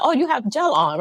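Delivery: high, light mock of the nail tech; lightly voiced salon worker. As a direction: imitate the salon worker's bright question. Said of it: "They're like".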